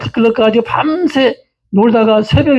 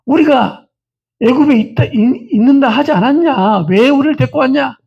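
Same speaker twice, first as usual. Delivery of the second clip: higher-pitched mock grumbling at a leader; put-on reproach, voice raised in pitch; acted resentful complaint; 4 semitones higher than usual. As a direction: imitate people complaining bitterly, pitched up. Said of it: "처음에는 모세를 원망합니다".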